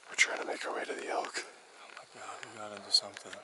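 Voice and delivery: hushed excited whisper; whisper, elk just ahead. Real, not acted. Stalking elk at dawn.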